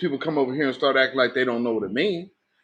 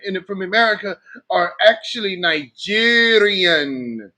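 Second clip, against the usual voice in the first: higher-pitched, sing-song boasting caricature; mock boastful visitor; 5 semitones higher than usual. A visitor boasting of riches and Congo roots, mock boastful. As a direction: put on a boastful foreigner's voice, high throughout.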